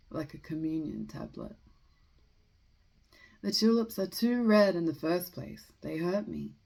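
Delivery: measured, deliberate poem recitation with pauses between phrases; poetry reading. Acted. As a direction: read the poem aloud, letting each line settle. Reads a poem aloud.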